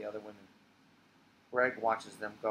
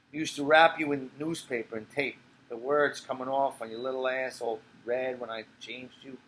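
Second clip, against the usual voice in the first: put-on tipsy old woman. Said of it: "She turns into Sophie".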